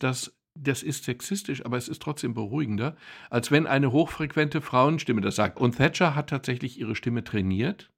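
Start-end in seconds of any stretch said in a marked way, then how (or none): none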